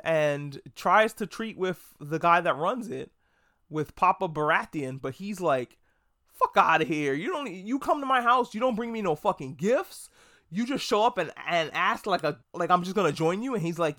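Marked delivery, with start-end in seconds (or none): 6.3-13.5 indignant lord's rant. Retold or imitated. Lord telling Jace off for coming without gifts, offended rant. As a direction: bristle like an insulted host who got no gifts.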